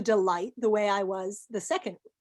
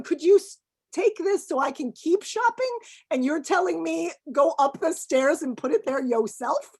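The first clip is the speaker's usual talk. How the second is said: higher, louder mock exasperation; indignant rhetorical questions, raised voice; exasperated retelling; 6 semitones higher, 4 dB louder than usual. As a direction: act out the irritated shopper. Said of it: "And I'm going".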